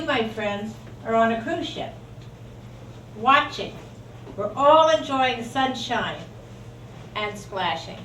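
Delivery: lightly performed poetry reading; poem recitation. Acted. Poet reads to her friends at Sacred Grounds, poem recitation. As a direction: recite line by line, with pauses.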